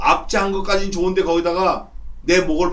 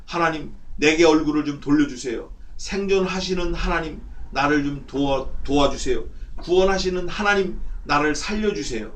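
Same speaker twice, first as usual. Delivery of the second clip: mildly urgent supplication; demonstrated prayer of entreaty; earnest pleading prayer. Acted. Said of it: "그런 간절함으로".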